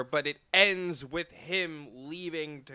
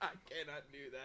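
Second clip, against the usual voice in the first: quick, soft little Yoda refusal; 3 semitones lower, 15 dB quieter, much faster than usual. Pretend. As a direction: Yoda voice, mumbled and fast. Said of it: "his Yoda impression".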